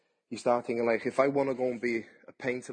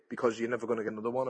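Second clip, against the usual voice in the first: fast, urgent; much faster than usual. Shown as a demonstration. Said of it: "So enjoy it".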